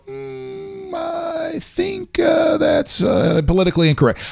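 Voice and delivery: high put-on voice, then slow; mock offended listener. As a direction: ham up a prissy offended listener.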